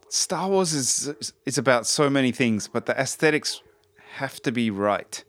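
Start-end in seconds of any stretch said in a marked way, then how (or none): 0.0-1.3 whispered sigh. Real, not acted. Sighing aside to himself.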